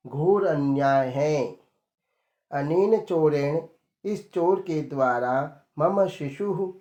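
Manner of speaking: merchant crying out loudly in court. Acted. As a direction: call out that you've been cheated. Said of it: "ऊंचे स्वर में बोला".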